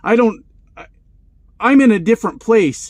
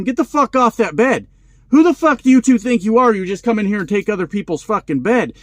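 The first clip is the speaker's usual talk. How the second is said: retold furious yell, louder and higher; angry yelling; 3 semitones higher, 4 dB louder than usual. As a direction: chew them out like a bully. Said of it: "now they're yelling at us".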